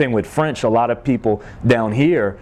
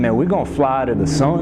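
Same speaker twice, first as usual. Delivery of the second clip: put-on Cajun accent; 2 semitones higher than usual. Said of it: "They said".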